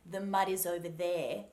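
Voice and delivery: mud with a soft D running into is; soft final D. Shown as a demonstration. Coach uses it in a sentence, soft D in mud. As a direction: ease the D of mud into the next word. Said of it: "that D at the end of mud".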